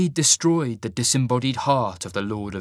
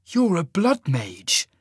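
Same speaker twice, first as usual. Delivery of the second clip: hissed; 6 semitones higher, 3 dB louder, slower than usual. Acted. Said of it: "he hissed".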